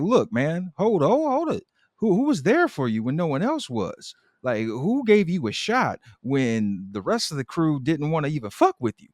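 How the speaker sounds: high, rising indignant Donna; mock Donna outburst. Co-host voicing Donna confronting David, rising high.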